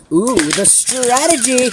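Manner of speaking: slow, high, drawn exclaim; impressed. Real, not acted. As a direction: savor the move. Mock admiration of a move.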